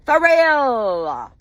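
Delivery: high "For real?" stretched and falling; incredulous wail. Real, not acted. Wife ranting about husband's mistress, incredulous wail. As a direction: wail it in drawn-out disbelief. Angry rant in disbelief.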